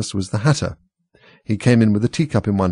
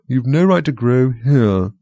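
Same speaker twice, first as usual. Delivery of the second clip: Dormouse voice; 4 semitones higher, 3 dB louder, slower than usual. Acted. Dormouse scolds Alice.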